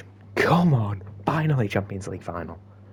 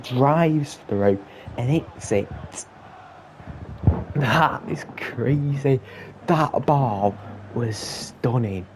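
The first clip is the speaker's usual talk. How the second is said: excited replay; 4 semitones higher, 4 dB louder than usual. Real, not acted. Replaying the winning goal.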